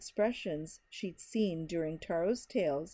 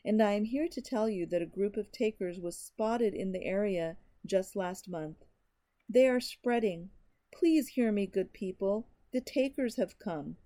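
shout. Acted. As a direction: shout the warning to everyone. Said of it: "His voice rose to a shout".

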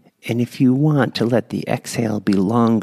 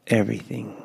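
soft breathy word; 6 dB quieter, faster than usual. Shown as a demonstration. One word on the exhale.

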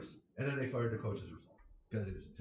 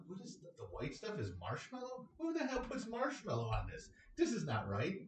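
disgusted disbelief; 4 semitones higher than usual. Retold or imitated. Retelling his first taste of sweet potato pie, mock disgusted. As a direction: squeak high on who the hell, mock outrage. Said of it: "And I'm like".

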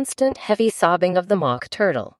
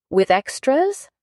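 a little anxiously; 9 semitones higher, slower than usual. Acted. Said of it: "a little anxiously".

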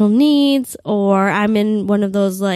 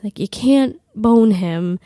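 inner voice. Retold or imitated. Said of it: "I thought to myself".

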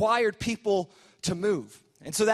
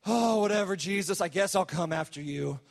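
put-on reluctant teen grumble. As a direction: play a lazy teenager who can't be bothered. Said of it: "we approach Jesus' invitation like".

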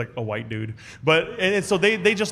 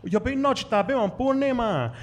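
teasing reply; 9 semitones higher than usual. Retold or imitated. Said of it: "I just said in Hmong".

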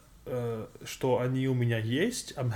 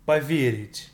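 careful, slowed-down Russian teaching read; slow clear model phrase. Shown as a demonstration. Teacher modelling a phrase for the student, slow and clear. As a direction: say Я не могу поверить slowly, each syllable clear. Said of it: "so what you say is".

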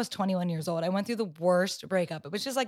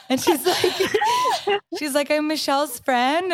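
high, slow words broken up by laughter; can barely get it out for laughing; giggling through the punchline; laughing while telling; 6 semitones higher, 4 dB louder, slower than usual. Real, not acted.

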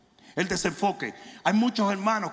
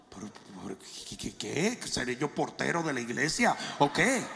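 low, fast mutter of mock disbelief; exasperated mock reply; 9 semitones lower, 8 dB quieter than usual. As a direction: brush it off, half-laughing at the question. Pastor mocks members counting attendance. (réplica exasperada en tono burlón)

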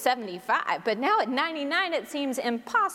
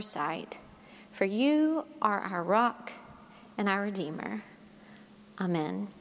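prayer. Acted. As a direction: pray gently for the gathered hearts. Leads opening prayer.

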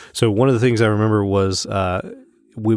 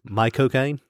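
higher, run-together Cockney "My cocaine"; Cockney flair; 4 semitones higher, slower than usual. Shown as a demonstration. Co-host echoes the impression, Cockney flair. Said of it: "add a little bit of Cockney flair".

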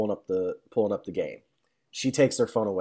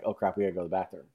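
rushed panic; 4 semitones lower, 6 dB quieter, much faster than usual. Retold or imitated. Retold panic before the wedding.

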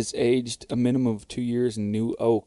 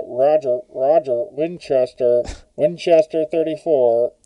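radio call through a cup mic, loud; 2 semitones higher, 6 dB louder than usual. Pretend. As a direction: bark it like a radio operator into a cup. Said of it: "speaking into my cup right now like a microphone".

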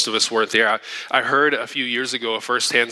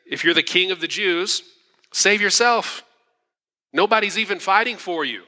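higher sneering taunt; mocking guards; 5 semitones higher than usual. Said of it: "And then the guards".

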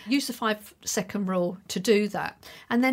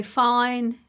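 bland fine; 3 semitones higher, 5 dB louder than usual. Shown as a demonstration. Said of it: "always feel a bit bland".

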